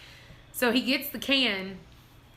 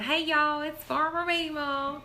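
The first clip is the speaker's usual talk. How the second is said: slow, higher mock folksy greeting; mock Farmer Meemaw greeting; 3 semitones higher, slower than usual. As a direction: tease by copying the cheery video hello, drawn out. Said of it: "Emily's all the time going".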